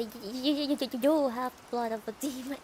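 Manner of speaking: stammering madman, lightly played; crazy man. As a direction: stutter hard on the first word. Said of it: "I need to make him sound a bit crazy".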